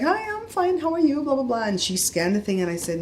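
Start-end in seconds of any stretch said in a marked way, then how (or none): 0.0-1.6 high-pitched put-on sweetness; sweet voice. Greeting a cashier who's having a bad day, high sweet voice. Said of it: "I went into my sweet voice".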